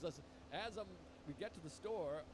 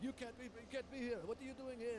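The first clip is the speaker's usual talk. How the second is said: mock scream held at talking volume; retold screaming; 6 semitones higher, faster than usual. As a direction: imitate an irate man telling someone off. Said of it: "he's screaming at him".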